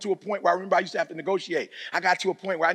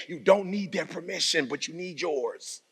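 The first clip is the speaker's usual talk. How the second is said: soft; 5 dB quieter than usual. Shown as a demonstration. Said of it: "repeats loudly after".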